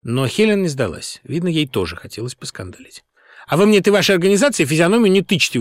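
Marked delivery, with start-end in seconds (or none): 3.5-5.6 sharp high loud outburst; squabbling boss snapping at the driver; blurted out. A narrator's reading. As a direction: fire it back at him, indignant. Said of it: "выпалила она".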